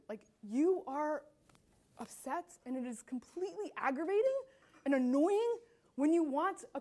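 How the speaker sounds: measured, empathetic reassurance with pauses; understanding statement. Shown as a demonstration. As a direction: show an upset customer you understand. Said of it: "that statement of understanding".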